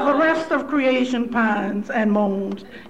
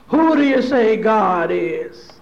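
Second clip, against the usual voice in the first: loud resonant preacher; 2 semitones lower, 3 dB louder, slower than usual. Retold or imitated. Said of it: "he would say in his loud, resonant voice".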